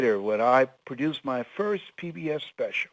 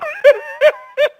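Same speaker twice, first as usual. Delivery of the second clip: loud high burst of laughter; howling laugh at the punchline; big laugh; 13 dB louder than usual. Real, not acted.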